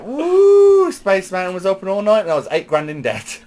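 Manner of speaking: high woo, then a lightly voiced Flair brag; Ric Flair impression. Retelling Flair bragging about his big night. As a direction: brag like the Nature Boy, laughing. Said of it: "He went, he went".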